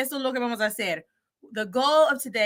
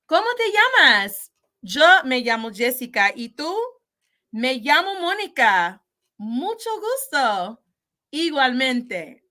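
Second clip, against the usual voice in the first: Spanish teacher acting out both sides of a dialogue, brighter and louder; modelling two speakers; 2 semitones higher, 4 dB louder than usual. Shown as a demonstration. Teacher to class, acting out both speakers, clear and lively. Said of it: "I will model this conversation going back and forth".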